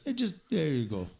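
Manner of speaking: imitating an official with an Arab accent; lightly put-on Arab accent. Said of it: "Notice I give him more of an Arab accent".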